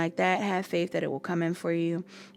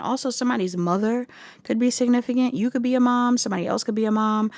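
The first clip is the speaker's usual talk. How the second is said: excited; 3 semitones higher, 5 dB louder than usual. Real, not acted. Excited about the mother message.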